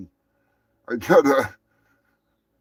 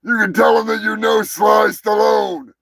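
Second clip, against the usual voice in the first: Sly Stallone impression; 5 semitones higher than usual. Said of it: "I will send you an audio message".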